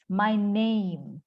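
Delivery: "My name" with "name" as neym; "name" drawn out and falling; correct NAME. Shown as a demonstration. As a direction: model "name" with a long ay glide.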